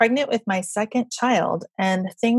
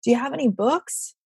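mild mock yell; 6 semitones higher than usual. Woman calls from her car to seller, mild mock yell. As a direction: imitate a shopper calling out, without real volume. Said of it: "she yells".

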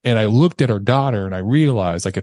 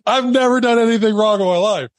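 high, strained protest of innocence; mock panicked wail; 12 semitones higher, 3 dB louder than usual. Man surrounded by cops, mock panicked protest. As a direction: wail it in exaggerated disbelief, pitched way up. Comic outburst about his clean record.

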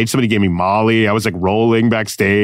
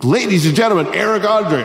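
lightly mimicked stage introduction; stage announcer; 8 semitones higher than usual. Imagining the introduction he never got, mock announcer. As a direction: pitch it up like an MC's intro. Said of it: "Nobody brought me up. It wasn't like".

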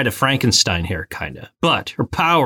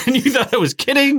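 put-on big baby mode; 12 semitones higher, faster than usual. Retold panic continues.

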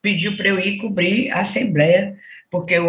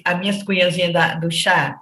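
affectionate tone. Shown as a demonstration. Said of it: "depende da entonação".

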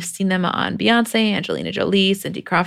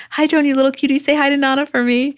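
higher, lightly doting granny-note voice; reading a sweet message out fondly; sweet mock mom; 7 semitones higher, 3 dB louder than usual. Julie's sweet message read out.

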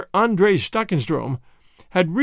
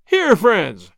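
louder call to the men nearby; 3 semitones higher, 6 dB louder than usual. Acted. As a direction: hail the Boers across the yard. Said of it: "he called to some of the Boers".

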